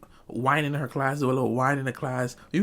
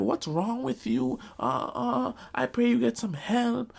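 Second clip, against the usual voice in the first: mocking the teacher; 8 semitones higher, slower than usual. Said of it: "come for me and be like".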